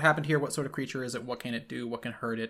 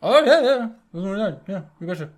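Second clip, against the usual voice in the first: much higher and louder, hammed-up Upper Midwest accent; thick Upper Midwest accent; 8 semitones higher, 12 dB louder, faster than usual. Old sailor confirming to the hunter in a hammed-up Upper Midwest accent. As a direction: lay the Upper Midwest "you betcha" on thick. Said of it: "It's a bit thick on the accent".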